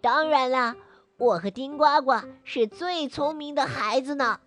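put-on proud boy voice. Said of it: "骄傲地说".

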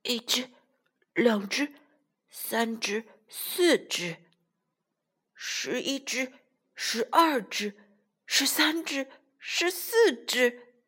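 soft hushed counting; counting quietly. Acted. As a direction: count under your breath. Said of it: "小声地数了起来".

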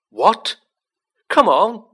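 loud, high exclamations; high-energy shouted burst; excited shouting. A narrator's reading. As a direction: yell out urgently. Urgent shouting toward the car.

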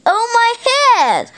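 high, wailing mock groan of pain; storybook groan. A narrator's reading. Zip and Kipper bumped heads, high acted groan. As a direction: groan as if you bumped your head. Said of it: "groaned Zig".

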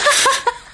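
high-pitched burst of laughter. Real, not acted. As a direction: squeal of laughter. Laughs at own bad imitation.

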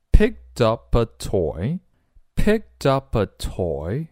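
slow "picked up a toy" with the words joined, pick-tuh-puh; slow teacher's linking demo of "picked up a toy"; linked pronunciation. Shown as a demonstration. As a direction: link "picked up a" into one run, slowly. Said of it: "这里要连读".

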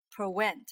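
prevent said as pre-went; V turned into W. Shown as a demonstration. Teacher imitating learners' mistake, W for V in prevent. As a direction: round the lips on prevent, a W in place of V. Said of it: "发V的时候都发成了W".

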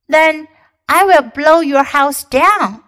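loud big bad wolf. Wolf threatening.

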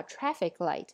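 "traffic light" weighted on the first word; stress on TRAFFIC. Shown as a demonstration. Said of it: "复合名词的重音一定要放在前边".

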